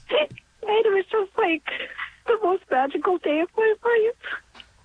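choked up with real gratitude; real tearful emotion. Real, not acted. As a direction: voice rising and catching near tears. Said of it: "I wasn't expecting to get so emotional".

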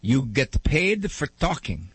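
slow, puzzled Italian grandfather; a hint of an old Italian man's disbelief; light Italian accent. Grandfather doubting his grandson's job, light Italian accent. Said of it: "in his broken Italian accent".

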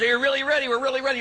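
high-pitched televangelist hype; Benny Hinn. Retold or imitated. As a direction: work up a stadium as a TV faith healer. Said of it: "He goes".

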